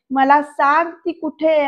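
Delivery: slow, mildly angry retold demand. Sarkar interrogates the man about Sakhi, angry. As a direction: press it slowly, with acted irritation. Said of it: "असं म्हणत ना रागाने बघतायत".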